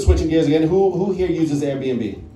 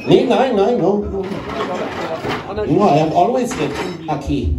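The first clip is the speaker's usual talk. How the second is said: a panicky German Hitler denying everything; mock German denial; 2 semitones higher than usual. Hitler denying, mixed languages.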